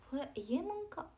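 ordinary delivery

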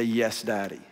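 a daughter happily agreeing with her dad; sweet little daughter. Retold or imitated. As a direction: answer like a trusting little girl. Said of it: "her first response was to look at me and to say".

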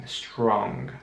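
"Strong" ending in a very mild G; mild final G. Shown as a demonstration. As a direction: let the G of "Strong" melt into a soft ng. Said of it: "sehr milde aussprechen".

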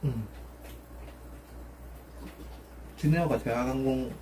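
talking while chewing; muffled by food; mouth full. Real, not acted. Seen 3: puts food in mouth at start, chews throughout.

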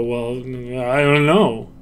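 slow, slurred mumble, words melting together; mumbled. Shown as a demonstration. Showing animators an unclear line, slow mumble. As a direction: mumble it, dragging out the sounds. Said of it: "maybe they're mumbling".

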